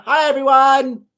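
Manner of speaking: high, slow cat-voiced hello; voicing the cat. Voicing the cat to greet the viewers, high and slow. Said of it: "Say hello to Dexter".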